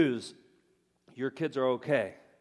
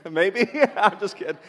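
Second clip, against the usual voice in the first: laughing through a joking retraction; real chuckle as he takes it back; 6 semitones higher, 7 dB louder than usual. Real, not acted. Pastor laughing off his own joke to the congregation.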